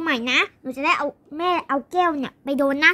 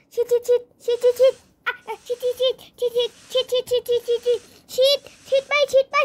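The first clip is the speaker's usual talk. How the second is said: high, rapid-fire staccato chant; frantic spraying; 6 semitones higher than usual. Pretend. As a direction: pretend zombie battle, high and urgent. Pretend fight spraying zombies.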